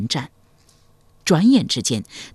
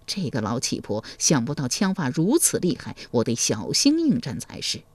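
hushed, lower aside to himself; alarmed inner thought; 3 semitones lower, 7 dB quieter than usual. A narrator's reading. Warrior startled by his opponent's spear skill, hushed inward alarm. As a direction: think aloud, quiet and wary. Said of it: "心中大骇".

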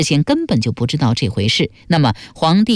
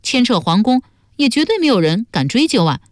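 higher-pitched character arguing a case; animated young schemer; 6 semitones higher than usual. Acted. Laying out the perfect cover-up to companions, animated. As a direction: argue it out in a higher voice.

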